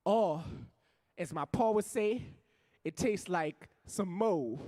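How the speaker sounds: rhythmic stage poetry with rising heat; spoken word poem. Acted. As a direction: perform it like a slam poem for a crowd.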